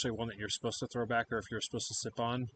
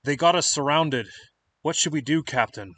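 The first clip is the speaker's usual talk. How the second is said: muffled voice; 2 semitones higher, 6 dB louder than usual. Acted. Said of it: "just make out a muffled".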